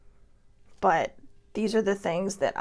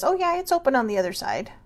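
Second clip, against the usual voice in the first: higher, lightly acted helpful stranger; lightly quoted, pitched up; mock reassuring passer-by; 5 semitones higher, 4 dB louder than usual. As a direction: toss it out as someone else's casual assurance. Voicing someone calling from tunnel's other side.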